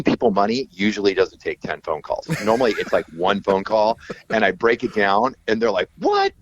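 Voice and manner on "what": very high, giddy put-on voice; imitated amazement. Musicians hearing about big tour money, imitated amazement. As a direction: squeal with hammed-up delight at a windfall.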